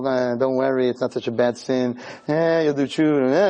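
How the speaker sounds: low, casual coaxing, not truly whispered; whispering tempter. Acted. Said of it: "he's whispering in your".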